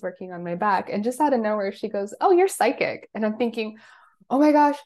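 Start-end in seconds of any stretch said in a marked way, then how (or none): 2.2-3.1 retold exclamation. Quoting the facilitator. 4.3-4.8 higher, fast, caught out; a hammed-up shocked inner thought; startled disbelief.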